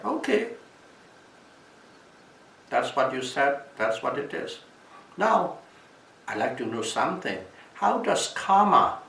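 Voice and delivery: challenging king. Retold or imitated. King's challenge voiced.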